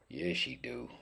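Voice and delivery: high-pitched, softly cooed yes; high, soft answer. Pretend. Cook admiring his duck to himself, high soft answer.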